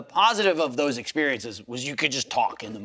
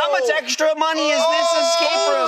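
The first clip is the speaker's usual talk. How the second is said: mock rant; 9 semitones higher than usual. Mock ranting at hosts.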